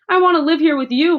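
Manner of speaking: high, loud pleading cry; begging with her whole heart. Acted. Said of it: "Matilda cried out".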